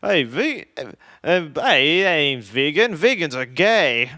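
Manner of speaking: exaggerated Aussie, stretching the last words; Australian accent. Comedian quoting Australian travelers who mocked him, in an Australian accent. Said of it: "what I think Australians talk like".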